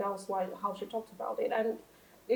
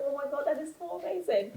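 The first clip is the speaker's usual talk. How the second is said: mock gushing awe; 5 semitones higher, 4 dB quieter than usual. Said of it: "we're like".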